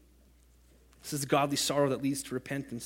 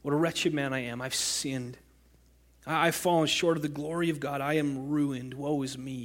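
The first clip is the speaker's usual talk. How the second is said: softer, broken confession; a touch of mournful woe; quiet lament; 3 dB quieter than usual. Acted. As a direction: let it sink into grief. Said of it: "he cries".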